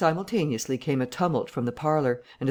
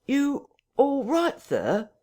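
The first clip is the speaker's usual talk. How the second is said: much higher, slow sharp call; 12 semitones higher, much slower than usual. A narrator's reading. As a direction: call through the door sharply. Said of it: "asked Mister Hall sharply".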